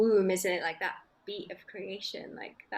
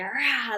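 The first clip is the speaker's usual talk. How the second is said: mock roar; 3 semitones higher, 6 dB louder than usual. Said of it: "I go".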